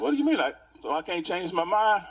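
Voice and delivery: high, loud indignant outburst at the cashier; upset protest. Retold or imitated. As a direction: protest hotly: what do you mean. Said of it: "now I'm upset now".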